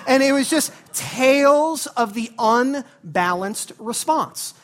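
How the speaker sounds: slow, loud, drawn-out "tales of the unbalanced response"; emphatic catchphrase. Acted. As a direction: land the catchphrase like a verdict. Catchphrase delivered as a punchline.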